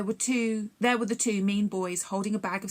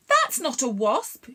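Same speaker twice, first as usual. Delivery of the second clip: louder, slow insistent correction; shouted; 6 semitones higher, 7 dB louder, slower than usual. A narrator's reading. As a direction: call it out firmly. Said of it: "shouted Jack".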